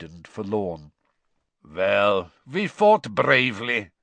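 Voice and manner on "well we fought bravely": glum, resigned statement; mournful consolation; gloomy voice. A narrator's reading. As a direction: say it gloomily, conceding defeat. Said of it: "said a gloomy voice".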